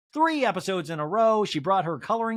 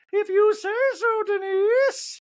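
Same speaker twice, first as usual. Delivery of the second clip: very high, loud mock voice; high sarcastic drawl; Dorit impression; 5 dB louder, slower than usual. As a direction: sneer it in a high falsetto. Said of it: "Dorit in a talking head goes".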